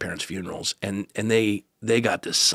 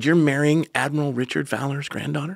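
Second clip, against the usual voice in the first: mildly astonished question, pitched higher; astonished mother; 5 semitones higher than usual. Retold or imitated. Mother learns whom her son is marrying, astonished. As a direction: retell a mother's disbelief, voice lifted.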